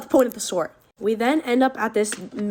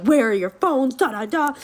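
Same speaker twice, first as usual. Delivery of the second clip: higher, louder mock telling-off; retold angry lecture; 4 semitones higher, 4 dB louder than usual. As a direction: imitate a stepdad launching into a speech. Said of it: "giving this whole speech".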